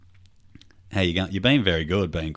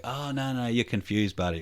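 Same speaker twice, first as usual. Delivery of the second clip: higher-pitched, acted reassurance; overeager reassurance; 6 semitones higher than usual. Dad denies son saw a figure, acted high reassurance. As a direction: brush it off for a child, pitched up.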